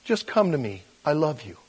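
gentle, simple reassurance; tender invitation. Acted. God answering the guilty sinner, tender invitation. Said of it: "And God says".

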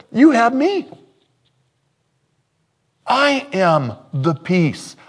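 voicing Jesus. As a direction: let Jesus answer with weight. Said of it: "And Jesus says".

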